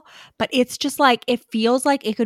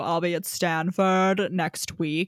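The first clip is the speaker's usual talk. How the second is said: smooth suave professor; 3 semitones lower than usual. Retold or imitated. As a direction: ease into it like a smooth senior professor. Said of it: "It's more like".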